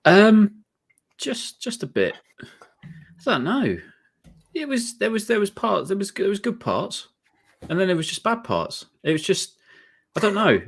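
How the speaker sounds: flustered high voice. Real, not acted. Flustered answer on the spot.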